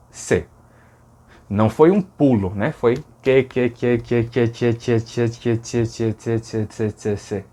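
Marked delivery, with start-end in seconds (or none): 3.4-7.5 que, que slowly softening toward se; gradual shift. Shown as a demonstration. Teacher showing que gradually turning into C. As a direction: repeat que and let it fade into se. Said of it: "C, certo?".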